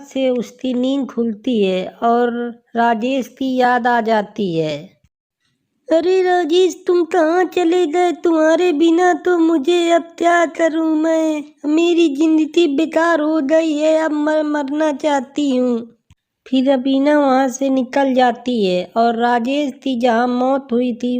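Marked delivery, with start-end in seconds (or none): 5.9-16.0 a touch of lament, slightly raised pitch; grieving young woman. Acted. Girl missing her dead lover at night, mildly plaintive. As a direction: lament lightly as the bereaved heroine.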